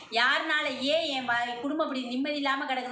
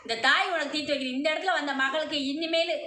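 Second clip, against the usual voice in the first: possessed goddess voice. Acted. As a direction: proclaim as the mother goddess in trance. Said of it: "அம்மா அருள்ல வந்து சொல்லிச்சு".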